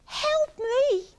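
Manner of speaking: high, loud, startled question; Iggy gulping. A narrator's reading. Iggy hearing Monkey's offer, startled gulp. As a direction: blurt it in disbelief. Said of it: "gulped Iggy".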